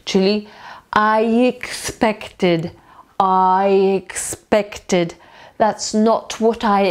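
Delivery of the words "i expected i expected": slow "I expected" with a y-glide joining "I" to "expected"; linking j glide. Shown as a demonstration. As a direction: link "I expected" as "I-yexpected", drawn out slowly. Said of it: "to my tutaj dodamy jeszcze j w wymowie".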